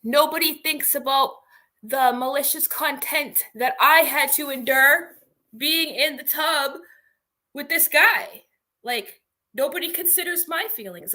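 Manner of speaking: hammed-up complaint of a wronged duck, lightly voiced; aggrieved crying duck. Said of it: "crying, and he was like".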